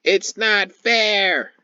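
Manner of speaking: loud, very high, drawn-out mock wail; mock bitter cry. Preacher mocks Esau's complaint over the blessing, loud mock wail. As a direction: wail it slowly like a hammed-up tantrum. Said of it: "an exceedingly bitter cry".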